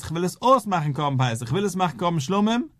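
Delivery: lifted voice, only half shouting; mock shouted declaration. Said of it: "In die Schreis".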